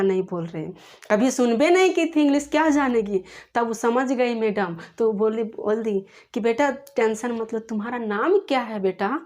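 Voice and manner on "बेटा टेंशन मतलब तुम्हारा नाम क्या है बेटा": ordinary delivery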